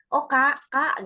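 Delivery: a Medan tone that sounds angry but isn't; Medan intonation. Retold or imitated. Medan sibling calling out, in a lively Medan tone. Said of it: "gitu-gitu, suaranya agak nadanya nih".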